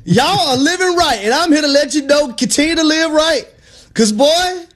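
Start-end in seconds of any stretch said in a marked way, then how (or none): 0.0-3.4 high, slow revival preacher voice; preaching. Acted. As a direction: testify to the Knicks faithful from the pulpit. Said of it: "holding this Bible right now".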